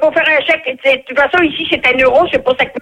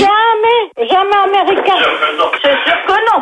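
high-pitched real protest; indignant, higher-voiced refusal; emphatic denial; 6 semitones higher, slower than usual. Real, not acted. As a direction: deny it outright, pitch raised. Woman protests at being called American.

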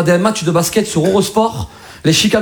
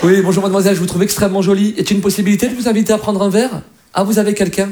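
Marais flirt. Acted. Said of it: "c'est un mec qui drague dans le Marais".

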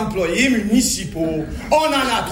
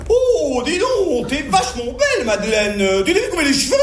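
mock Parisian lady; 4 semitones higher than usual. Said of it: "j'entends une dame qui disait".

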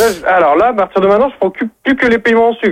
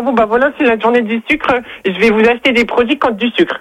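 slightly higher-pitched mock dimwit customer; idiot customer voice; 4 semitones higher than usual. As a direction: put on a silly customer voice, pitched up a bit. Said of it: "je prends une voix de débile".

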